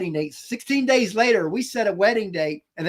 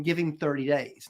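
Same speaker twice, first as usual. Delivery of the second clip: quiet inner voice; 4 semitones lower, 6 dB quieter than usual. Retold or imitated. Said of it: "he was saying".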